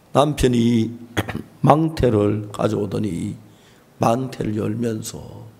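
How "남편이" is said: ordinary delivery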